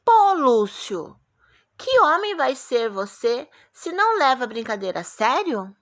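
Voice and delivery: very slow, loud, stretched "Pô"; teacher models the exclamation; exclaimed reading. Shown as a demonstration. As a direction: exclaim "Pô, Lúcio" with a long fall. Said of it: "Coloquem aí o ponto que vocês acham".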